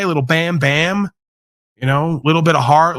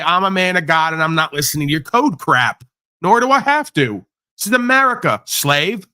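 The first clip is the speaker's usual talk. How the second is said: mock defiant. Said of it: "you don't say it like that".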